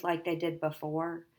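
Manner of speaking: quiet, hesitant question. Acted. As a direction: ask it after swallowing. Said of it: "I swallowed".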